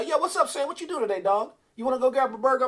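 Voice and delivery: a hint of buddy-buddy small talk; chummy buddy call. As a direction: imitate a casual phone call to a pal. Voicing a chummy call to Sam.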